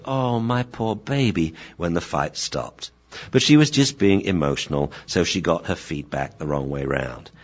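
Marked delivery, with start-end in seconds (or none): 0.0-1.5 slow, higher cooing; tender consoling. Acted. Owner hugging her dog after the fight, tender cooing. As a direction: comfort a hurt pet. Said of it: "hugged you and said".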